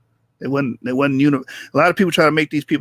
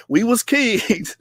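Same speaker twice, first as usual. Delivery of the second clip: mocking a white boy; 4 semitones higher, much slower than usual. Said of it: "I had to steal a white boy".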